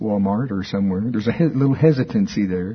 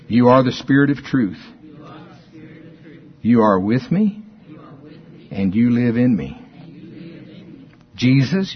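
measured declaration in short phrases with long pauses; scripture confession. Acted. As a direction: recite it as a deliberate personal prayer to Jesus. Recites scripture confession aloud, line by line.

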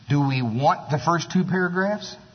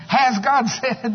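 slow, higher sly tempter voice; devil's taunt; 8 semitones higher, 3 dB louder, slower than usual. Retold or imitated. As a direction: drag each word out, needling. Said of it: "And the devil goes".

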